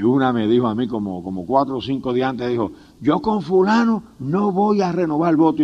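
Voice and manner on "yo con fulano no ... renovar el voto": defiant refusal. Retold or imitated. Wife's refusal, acted out.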